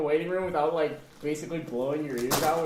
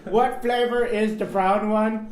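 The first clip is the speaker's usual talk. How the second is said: slow, higher silly voice; 5 semitones higher, 6 dB louder, slower than usual. Pretend. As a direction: ask it like a dopey kid. Silly kid voice question.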